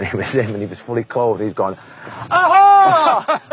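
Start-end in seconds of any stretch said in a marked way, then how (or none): 2.3-3.4 much higher, loud gleeful cry; loud playful exclamation. Retold or imitated. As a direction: pop up with a big triumphant aha. Friend surprises him in bed.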